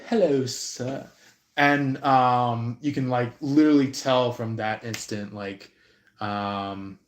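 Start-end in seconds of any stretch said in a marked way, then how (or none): 0.1-1.1 lightly put-on copycat voice, a bit higher; a copycat mimicking someone else's greeting; a hint of a copied voice; borrowed voice. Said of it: "taking on someone else's voice".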